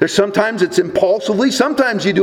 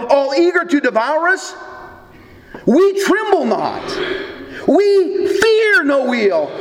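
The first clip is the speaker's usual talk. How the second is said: hymn recitation; 5 semitones higher than usual. Shown as a demonstration. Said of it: "Luther wrote these words".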